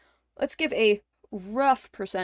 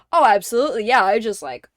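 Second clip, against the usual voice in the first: sarcastic boast; 4 dB louder than usual. Pretend. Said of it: "a whole, like".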